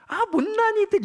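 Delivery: high, loud mock jeer. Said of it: "비웃겠죠". (높고 크게 비웃는 흉내)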